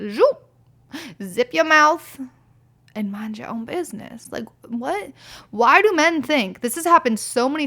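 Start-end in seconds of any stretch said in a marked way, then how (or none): 0.1-4.3 sassy shush. Real, not acted. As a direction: snap it shut with sass. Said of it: "telling men off".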